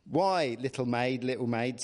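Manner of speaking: put-on rustic English shepherd accent; light rural dialect voice, old shepherd; old shepherd's country accent. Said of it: "don't know whether I should do an accent".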